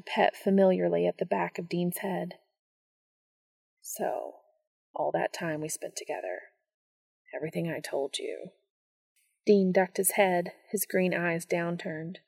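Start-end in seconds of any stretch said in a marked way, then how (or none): 3.8-8.5 soft, awed whisper; barely voiced wonder; hushed awe.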